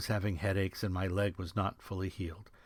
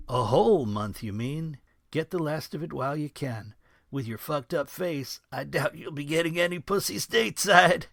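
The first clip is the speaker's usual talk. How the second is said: louder, higher leering chortle; a lightly voiced crude chortle; disgusting chortle; 7 semitones higher, 5 dB louder than usual. A narrator's reading. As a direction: sneer it out with a dirty laugh. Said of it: "Coop chortled in his special, disgusting way".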